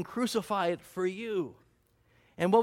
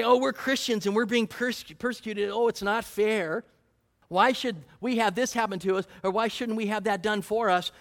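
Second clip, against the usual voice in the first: mock whining; 2 semitones higher than usual. Preacher mimicking self-pitying Christians, mock whine. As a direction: play a self-pitying complainer, half mocking. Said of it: "Don't have self-pity parties".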